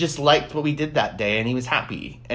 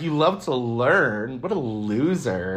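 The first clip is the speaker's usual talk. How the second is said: mocking sneer; much slower than usual. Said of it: "I was like".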